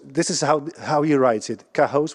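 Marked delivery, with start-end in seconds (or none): 1.7-2.1 "Cahoes" stressed on the second syllable, HOSE; accent on hose. Shown as a demonstration. Lecturer showing how the name is written, "Cahoes" stressed on HOES. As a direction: say "Cahoes" as ka-HOZE. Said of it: "with an accent on hose".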